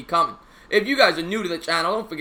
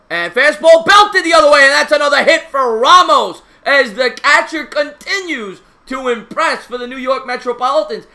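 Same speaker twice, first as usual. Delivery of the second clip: loud, high play-by-play, easing off gradually; excited hit call; 5 semitones higher, 7 dB louder than usual. Real, not acted. Commentator calls a Ramos hit for fans, excited. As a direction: burst out as the ball is hit, then ride it down.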